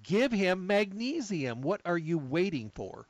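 high, slow mock yell across the room; retold yell. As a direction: call out firmly to the ER staff. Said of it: "I just yelled over there".

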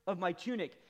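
building to loud and high lament; preacher reading Job's lament, rising; anguished reading. Acted. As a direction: read it as a man in torment. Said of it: "Verse fifteen says this".

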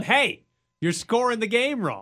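mildly acted-out yell at the scorekeeper; mock yell. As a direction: call out a complaint, half-yelled. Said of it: "You're just yelling".

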